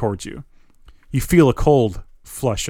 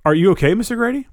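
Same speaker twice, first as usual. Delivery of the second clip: higher, quick, frightened; shrill with fear; 9 semitones higher, 3 dB louder, faster than usual. A narrator's reading. Player fearfully checks on fallen manager, high and fast. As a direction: panic rising as you check on him. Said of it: "Fear making your voice sound shrill".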